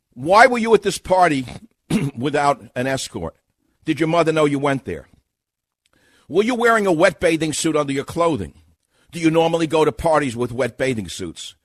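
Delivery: lightly acted investigator, voice pushed up; prosecutor questioning. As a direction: press the witness with pointed questions. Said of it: "I'm an experienced sex crimes investigator".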